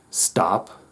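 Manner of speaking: a hushed stop, unvoiced; whispered stop. Shown as a demonstration. Teacher pausing stressed colleagues with a whisper. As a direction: breathe the word out like a pause. Stopping the rush.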